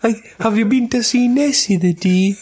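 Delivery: high put-on American voice; mock American accent. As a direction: Scot badly faking American, pitched high. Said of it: "saying this next thing in American accent".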